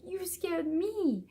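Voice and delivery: very high, drawn-out retold cry; reenacted shaken parent's high-pitched protest; upset, near tears. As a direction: wail it slowly, stretching the last word. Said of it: "we both just started crying".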